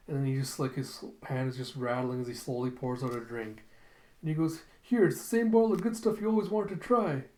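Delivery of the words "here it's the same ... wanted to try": high, louder coaxing offer; placating bartender. Retold or imitated. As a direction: offer a drink to appease a threat. Acted bartender offering a drink.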